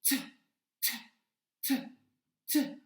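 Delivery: "t" as its bare sound, not the letter name; short separate bursts of "t", pauses between; son de lettre isolé. Shown as a demonstration. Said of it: "quelle lettre fait le son t". (le son « t » bref, répété et détaché)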